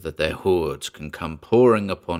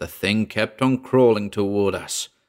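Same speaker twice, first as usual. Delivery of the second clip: plain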